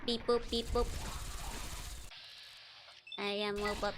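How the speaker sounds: lightly voiced sexy robot; a playful near-plain robot voice. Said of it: "This is my sexy robot voice".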